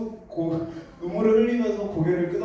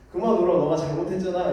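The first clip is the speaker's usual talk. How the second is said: mild parental scolding, louder at the start; retold scolding; 4 dB louder, faster than usual. Father scolding his crying child for being at fault, mild scolding. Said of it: "그 막 혼내요".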